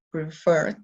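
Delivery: "preferred" with a strong "ferred"; stress on second syllable of "preferred". Shown as a demonstration. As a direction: push the final syllable of "preferred". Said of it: "La segunda sílaba es más fuerte". (acento en la segunda sílaba de "preferred")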